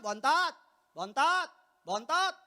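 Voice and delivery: loud, rising retort each time; mother calling him out. Acted. Mother recognising her son every time, loud repeated call. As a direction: fire back the same knowing call.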